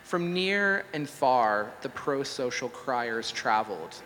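measured oracular recital; deliberate, solemn-style reading; mock-scripture recitation. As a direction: recite it like a prophecy from a made-up scripture. Recites a mock-scripture AI god monologue.

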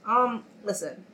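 blocked-nose nasal voice. Real, not acted. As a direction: speak through a stuffy nose. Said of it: "me and my nasally voice right now".

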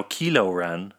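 "Kylo" said KEE-lo, not KYE-lo; "Kylo Ren" with KEE-lo, ee as in see; new Kylo pronunciation. Shown as a demonstration. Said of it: "or as I call him now".

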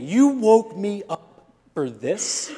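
slow, exasperated retort; a drawn-out disbelieving grumble. Retold or imitated. Father woken by the kids, mildly exasperated. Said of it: "And I thought".

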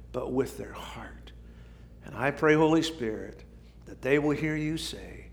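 hushed earnest prayer voice. Acted. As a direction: pray it softly and sincerely. Pastor leads prayer.

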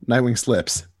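ordinary talk, nothing marked

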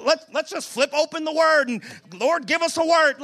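lightly put-on Southern preacher; winging it in a mock Southern voice; a touch of Southern twang; Southern accent. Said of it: "this is a Southern voice".

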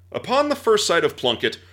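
a touch of period storyteller flourish; quoting old text. Acted. Host reading Johnson's account to co-hosts, mild period flourish. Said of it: "Charles Johnson recounts".

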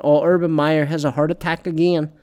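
light mocking Southern accent. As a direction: slip into a joking Southern twang. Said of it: "why am I doing the Southern accent".

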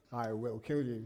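a hint of a menacing film father; desperate father's threat. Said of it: "he is saying".

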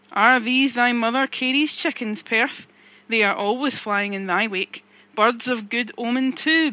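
loud, brooding sea captain musing aloud; moody Captain Ahab. Acted. Ahab voiced in the story.

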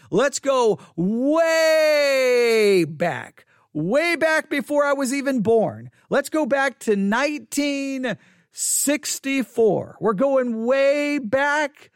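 slow, drawn-out storyteller voice; dramatic build-up. Acted. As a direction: draw it out like a trailer. Dramatic time travel build.

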